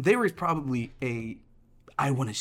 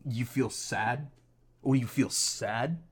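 lightly voiced immigrant parent, drawn out; mildly mocking parental disbelief, slow; ethnic parent; 3 dB quieter, slower than usual. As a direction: put on a hint of a dismissive parent. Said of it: "That's every, every ethnic, uh, parent".

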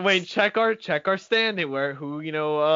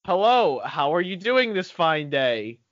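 lightly put-on country accent; a country greeting with a slow, easy finish; mild mock-country voice. Shown as a demonstration. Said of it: "Give us a quick country accent".

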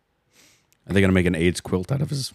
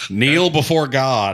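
drive thru speaker; 4 semitones higher, much slower than usual. Pretend. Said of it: "it's through a drive-through speaker".

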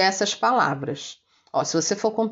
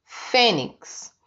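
fênix with a strong first syllable; teacher sounding out fênix, fê strongest; stress on FÊ. Shown as a demonstration. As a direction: lean on fê and let nix fall. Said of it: "é a sílaba mais forte".

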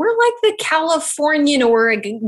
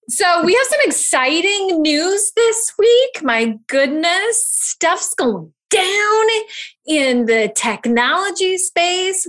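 hyped announcement; 5 semitones higher, slower than usual. Real, not acted. Hyping big news, drawn out.

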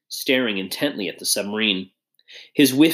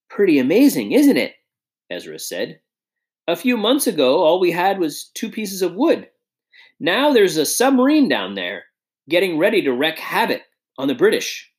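proud excited partner; 6 semitones higher than usual. Acted. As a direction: show off the submarine with pride. Ezra boasts about the submarine.

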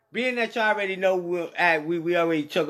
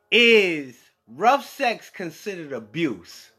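stiff then suddenly casual; slower than usual. Acted. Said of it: "in my professional voice".

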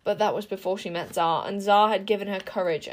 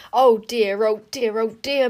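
a louder, fretful oh dear repeated; moaning; 6 dB louder than usual. A narrator's reading. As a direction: wring your hands, old bird. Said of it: "moaned Caliburn".

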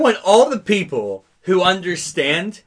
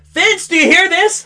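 a high, louder imitation of grandma calling grandpa; 9 semitones higher, 4 dB louder than usual. Grandma calling across to her husband, high and mock-shrill. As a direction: squeak it out like an old grandma. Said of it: "My grandma's gonna be like".

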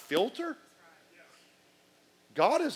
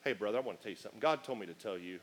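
mock pious messenger; 8 semitones lower, 9 dB quieter, faster than usual. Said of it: "somebody pull this on you".

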